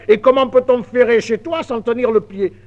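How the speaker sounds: incredulous exclamation. Acted. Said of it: "s'écria le maître maréchal".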